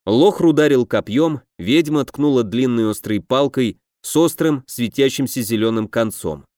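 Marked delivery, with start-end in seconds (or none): none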